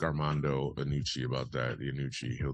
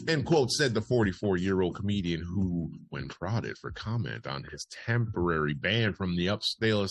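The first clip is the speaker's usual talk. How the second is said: projected straight-faced bulletin; news read; 5 semitones higher, 5 dB louder than usual. Acted. Host reads a parody article to listeners, deadpan news read. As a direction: report it like serious wire copy.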